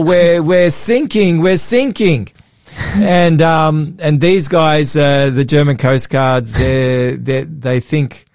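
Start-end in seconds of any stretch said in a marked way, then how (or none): 0.0-2.3 retold English distress call, raised pitch; lightly acted English plea; English accent. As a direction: imitate a stranded English caller. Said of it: "English voice".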